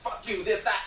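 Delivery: high, loud gibberish rant; mock screaming. Lady coming right at him, mock screaming. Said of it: "just screaming".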